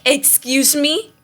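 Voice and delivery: slow, disbelieving excuse me; mock outrage at being told keep it; incredulous. Student retelling teacher scene, incredulous mock outrage.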